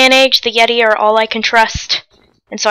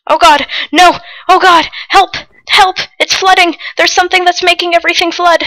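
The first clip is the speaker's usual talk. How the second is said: higher, urgent cries for help; panicked; 4 semitones higher than usual. Real, not acted. Player caught in a sudden flood, panicked. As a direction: call out in rising alarm.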